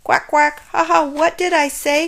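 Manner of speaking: loud, high quacking jeer; gloating duck laugh. A narrator's reading. Duck gloating as Shelley slides by, laughing. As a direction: crow over her like a duck. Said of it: "cried the duck".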